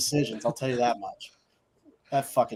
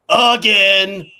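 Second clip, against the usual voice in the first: loud exasperated repeat; 4 semitones higher, 8 dB louder than usual. Real, not acted. Exasperated repeat of co-host's word.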